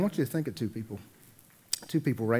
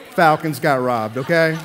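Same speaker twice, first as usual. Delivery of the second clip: louder, slower, hammed-up sports grievance; mock outrage; 2 semitones higher, 9 dB louder than usual. Real, not acted. Pastor griping to the congregation about the Falcons, mock outraged. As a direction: complain like a bitter fan. Aside about his football team.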